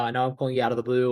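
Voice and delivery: quick, offhand rush through the line; rattled off quickly like an afterthought; fast casual opener. Shown as a demonstration. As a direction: toss it off fast after the stumble. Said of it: "different styles ... something like".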